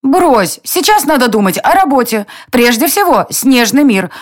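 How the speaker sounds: high squeaky fairy voice; squeaking. A narrator's reading. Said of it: "пропищала фея".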